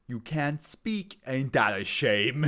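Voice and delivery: slow, sneering taunt; mocking taunt. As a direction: gloat over them slowly. Taunting a silenced enemy.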